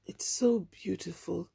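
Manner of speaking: slow breathy whisper; barely there, lost in the sky; whispered in a daze; dazed whisper. Retold or imitated. Dazed girl at railing.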